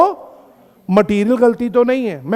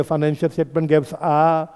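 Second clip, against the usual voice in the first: very slow, each word spaced out for notes; slow dictation; 4 semitones lower, 3 dB quieter, much slower than usual. Shown as a demonstration. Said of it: "आज की class में ये word बड़ा ज़रूरी है". (बहुत धीरे, लिखवाते हुए)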